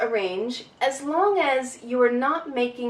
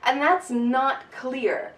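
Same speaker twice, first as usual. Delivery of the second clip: usual speaking voice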